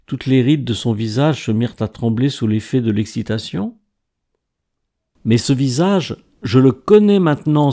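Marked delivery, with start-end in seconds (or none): 5.2-7.7 s'exclame, plus fort et plus haut, en secouant le bras; exclamation. A narrator's reading. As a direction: crie sa découverte, excité. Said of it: "s'exclama-t-il". (s'exclamer avec force)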